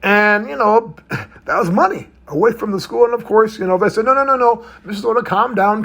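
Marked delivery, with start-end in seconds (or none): 4.0-5.8 higher-pitched, retold placating; lightly acted pleading to calm down; hurried placating. School staff soothe an angry mother, retold placating.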